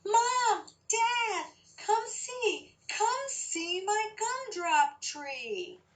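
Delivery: high, eager call to the parents; a little girl calling out with excitement; excited child call. Acted. Girl calls her parents to the garden, high and excited.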